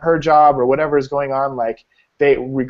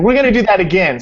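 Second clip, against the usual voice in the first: mock insistence; 8 semitones higher, 5 dB louder than usual. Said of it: "he's like".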